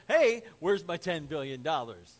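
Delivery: loud, acted confrontation; demanding king. King to man who blew the loan, loudly demanding. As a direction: call the debtor to account loudly.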